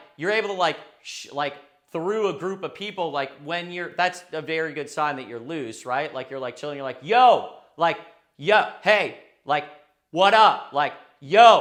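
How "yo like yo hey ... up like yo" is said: loud projected yelling voice, getting louder. Showing how to greet a group loudly in a bar: yelling greeting. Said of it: "really project your voice".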